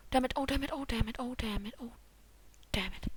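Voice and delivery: soft repeated cursing, fading away; quiet, sinking string of curses; subdued cursing. Real, not acted. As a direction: curse under your breath on a loop.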